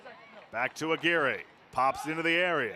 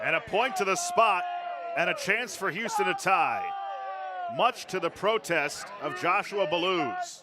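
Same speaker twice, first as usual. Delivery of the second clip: excited shout; 4 semitones higher than usual. Real, not acted. Penalty called in commentary.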